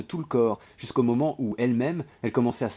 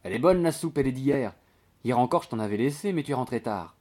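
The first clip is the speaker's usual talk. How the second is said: higher, coaxing servant's patter; a hint of an eager maid; lightly voiced chatty maid; 4 semitones higher, 3 dB louder than usual. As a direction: push the soup on him, lightly acted. Voices chatty maid Nastasia offering soup.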